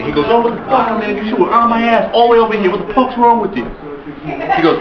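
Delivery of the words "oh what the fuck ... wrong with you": higher-pitched, indignant tirade at a tailgater; retold angry cursing. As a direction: re-enact chewing someone out. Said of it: "I started cursing at him badly".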